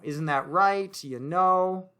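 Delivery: "Isn't that right? You know." as a friendly nudge; soft confirming. Shown as a demonstration. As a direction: coax a yes from the listener. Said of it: "We often in English will say".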